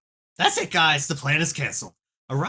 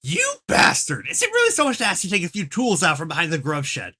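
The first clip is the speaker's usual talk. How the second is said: angry yelling; 5 semitones higher than usual. Acted. Troll character yelling in memo.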